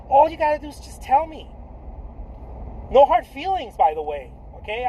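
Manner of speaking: normal talking voice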